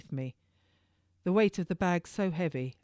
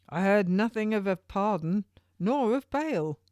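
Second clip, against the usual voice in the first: a touch higher, firm jailer; turnkey's voice; 4 semitones higher, 4 dB louder than usual. Acted. Turnkey answering the prisoner about a pardon, lightly voiced. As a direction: answer plainly, slowing on nor of bail.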